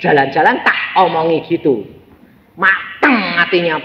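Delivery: ordinary talk, nothing marked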